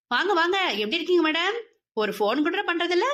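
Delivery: excited welcome. Acted. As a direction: welcome her with teasing delight. Sister greets happily, teasing. (உற்சாகமான வரவேற்பு)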